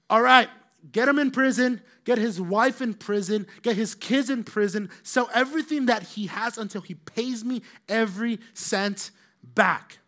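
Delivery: loud, high barked commands; the servant has his debtor jailed, shouting; furious orders. Acted. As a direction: yell the orders without mercy.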